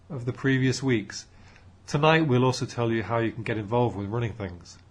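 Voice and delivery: loud, projecting talk to an audience; speaker addressing a room. Acted. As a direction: address the room like a keen young group leader.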